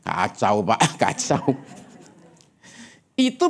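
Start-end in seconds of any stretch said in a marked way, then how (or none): 0.0-1.6 honest answer laughing. Retold or imitated. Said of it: "Boleh nggak sekali menjawab gini".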